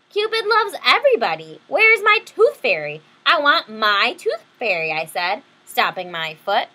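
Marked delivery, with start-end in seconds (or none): 0.1-4.9 high, loud whiny tantrum; throwing a fit. Acted. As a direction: stomp and demand your tooth fairy. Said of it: "She's throwing a fit".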